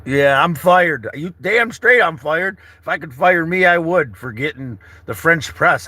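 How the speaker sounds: loud, slow self-firing rant; mock self-scolding. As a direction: scold yourself loudly, half joking. Scolding himself over forgotten press.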